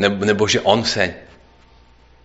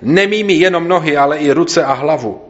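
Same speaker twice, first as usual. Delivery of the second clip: higher, louder eager cry; exclaiming Peter; 5 semitones higher, 4 dB louder than usual. Acted. Reading Peter's eager exclamation to Jesus, higher and louder. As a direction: Peter bursts out, wanting all of him washed. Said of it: "zvolal Šimon Petr".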